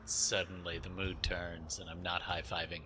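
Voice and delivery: put-on sad drunk whisper; drunk crying. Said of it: "now I'm, like, the sad drunk".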